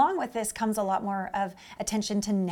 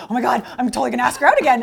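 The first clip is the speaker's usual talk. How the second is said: mock excited; 7 dB louder, faster than usual. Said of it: "And he's like".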